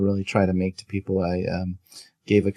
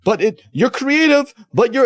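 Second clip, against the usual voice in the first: much higher, chirpy fake reassurance; mock forced positivity; 13 semitones higher than usual. Guest mocking people who must praise every flaw, high chirpy voice. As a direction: parody the reflexive silver-lining answer. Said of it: "you have to say".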